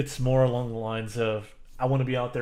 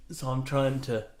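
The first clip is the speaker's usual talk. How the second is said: laughing. Real, not acted. Stifling laughter while sneezy.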